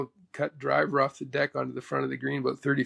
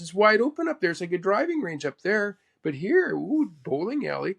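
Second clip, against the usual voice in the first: lightly imitated mentor, pitched up; 4 semitones higher than usual. Mentor compares wide and narrow spots, lightly imitated. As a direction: contrast the spots as a lively impression. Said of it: "He says".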